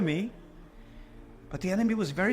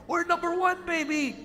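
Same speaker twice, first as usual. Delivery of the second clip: put-on high, gloating "number one, baby"; mock boast; 10 semitones higher than usual. Preacher mocking the slaves' boast, gloating. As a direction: mimic their empty bragging.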